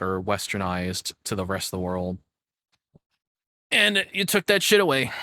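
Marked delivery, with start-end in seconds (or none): 3.7-5.1 indignant outburst. Real, not acted.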